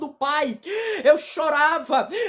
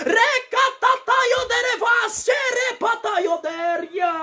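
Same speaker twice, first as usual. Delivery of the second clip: speaking in tongues; 7 semitones higher, slower than usual. Real, not acted.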